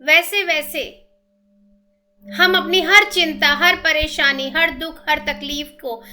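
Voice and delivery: measured meditation guide with long pauses; steady, even-toned breathing instructions; guided meditation. Real, not acted.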